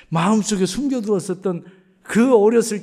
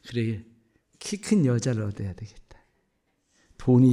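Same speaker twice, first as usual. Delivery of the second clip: hushed, plotting to himself; husband-to-be whispering his clever plan; scheming whisper; 8 semitones lower than usual. Retold or imitated.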